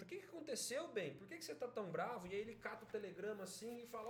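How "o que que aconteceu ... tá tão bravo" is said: quick, higher-pitched questioning; lightly voiced worried wife asking; concerned wife. Wife asking her angry husband what happened, concerned. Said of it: "a mãe, pergunta".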